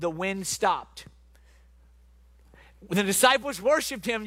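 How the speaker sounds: measured, dramatic Bible storytelling with long pauses; preacher's expressive story narration; scripture reading. A narrator's reading. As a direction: read the gospel story aloud to a congregation. Reads the scripture story aloud.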